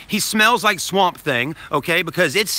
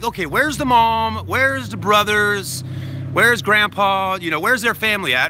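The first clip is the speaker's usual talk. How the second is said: worried inner voice; 5 semitones higher than usual. Retold or imitated. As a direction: ask it anxiously, as if looking around the yard. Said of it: "I'm thinking in my head".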